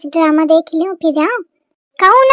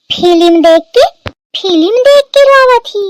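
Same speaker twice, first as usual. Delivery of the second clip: incredulous; 3 dB louder than usual. Acted. Mother-in-law incredulous.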